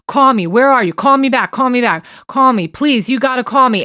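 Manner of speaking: mildly urgent mock pleading, repeated; retold insistent pleading. Abuser texting Cassie over and over, insistent pleading. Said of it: "it's repeatedly like".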